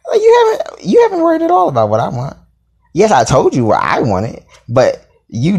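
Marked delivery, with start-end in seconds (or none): 0.1-2.4 mimicking him. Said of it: "He's like".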